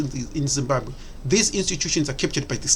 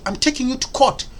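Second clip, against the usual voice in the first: mocking quote; 6 semitones higher than usual. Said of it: "That mentality that I'm tak".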